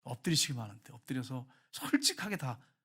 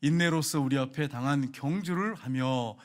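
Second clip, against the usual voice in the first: slow, measured unison reading; congregational scripture reading; 2 semitones lower, slower than usual. Real, not acted. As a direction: read the verse slowly together. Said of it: "같이 읽겠습니다". (느리게 함께 읽는 성경 봉독)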